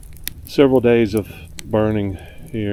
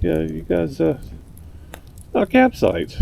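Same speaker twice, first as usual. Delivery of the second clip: high-pitched mock scolding of intruders; hammed-up retold reprimand, pitched well up; exaggerated telling-off; 7 semitones higher than usual. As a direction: play up shooing campers off, voice high. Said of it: "I didn't say it like that".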